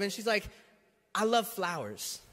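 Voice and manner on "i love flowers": soft, slow, lightly voiced wife; a coy hint, drawn out softly; wife's hint. Wife hinting at flowers to husband, softly and slowly.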